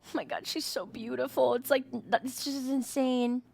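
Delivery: soft, breathy, awestruck; awed hush. Real, not acted. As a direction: murmur it in quiet wonder. Awed by her beauty.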